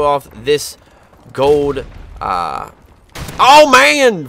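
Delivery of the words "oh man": surprised. Real, not acted. Sudden game surprise.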